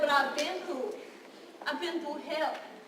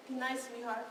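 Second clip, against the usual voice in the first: a cold, soft murmur from a predator; softer, icy and controlling; 4 semitones lower, 9 dB quieter than usual. Retold or imitated. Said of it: "His tone was as cold as his hand".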